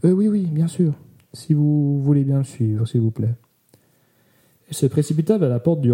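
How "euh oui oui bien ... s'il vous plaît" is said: put-on timid young woman. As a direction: speak like a shy nervous girl.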